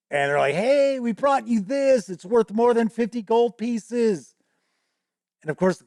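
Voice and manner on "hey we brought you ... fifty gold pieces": 1 players' offer. Retold or imitated. Players offering pianoforte to goblin.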